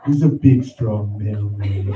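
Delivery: lightly voiced baby talk, stretched slowly at the end; baby talk praise. Supervisor praising the mailman, light mock baby talk. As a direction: coo at him like a toddler, slowly. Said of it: "I need my supervisor to look at me and say".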